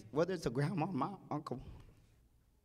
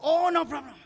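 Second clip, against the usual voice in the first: dad's easy reply; 10 semitones higher, 7 dB louder than usual. Retold or imitated. Father's cheerful reply, high.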